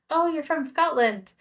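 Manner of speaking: mock an intrigued "oh, really" reaction; retold surprise. Retold American reaction to her origin.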